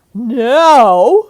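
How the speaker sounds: loud, drawn call to action; loud now. Acted. Aunt calling the children outside, loud. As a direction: call everyone to attention. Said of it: "said Aunt Mim".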